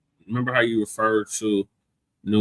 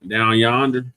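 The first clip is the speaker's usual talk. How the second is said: put-on southern accent; slower than usual. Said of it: "he would like to hear your southern accent".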